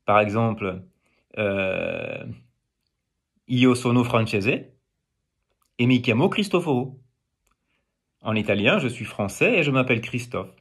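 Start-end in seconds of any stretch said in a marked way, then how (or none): 3.5-7.0 Italian sentence with a French tune; Italian said with a French melody; Italian carried on French intonation. Shown as a demonstration. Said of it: "Je peux utiliser l'intonation du français dans d'autres langues".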